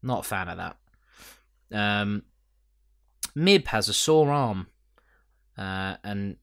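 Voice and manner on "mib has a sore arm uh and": unvoiced whispered aside. Real, not acted. Reading out her own note, whispering. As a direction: whisper it to yourself.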